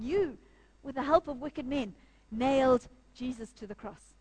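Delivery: pointed, deliberate retold charge with pauses; bold accusation. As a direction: aim the quoted charge straight at the congregation. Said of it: "He would have said that to us this morning".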